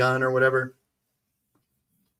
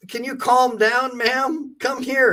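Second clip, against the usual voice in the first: higher, slow calm-down plea; a hint of an officer talking her down; mock cop; 9 semitones higher, slower than usual. Officer asking the mother to calm down, mildly mimicked. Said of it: "And she".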